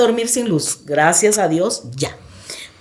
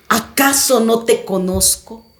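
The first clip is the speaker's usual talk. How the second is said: lightly voiced sinister questioner, measured and level; a hint of a taunting demon, slow and monotone; deep menacing voice. The unseen voice claiming her as its own, lightly menacing. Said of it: "una voz muy grave".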